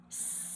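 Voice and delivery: long S gliding back into sh; s into sh demo. Shown as a demonstration. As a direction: hiss S, then round lips into sh. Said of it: "round your lips and you pull your tongue".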